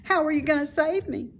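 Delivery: curious little pig. A narrator's reading. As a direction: ask it, wide-eyed and curious. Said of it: "asked Wilbur with curiosity".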